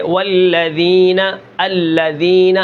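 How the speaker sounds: slow والذین and الذین with the ذ said soft and light; soft ذال. Shown as a demonstration. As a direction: stretch the word and keep ذ gentle. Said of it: "ہم اس کو نرم کر کے پڑھیں گے". (ذ کو نرم کر کے آہستہ تلاوت)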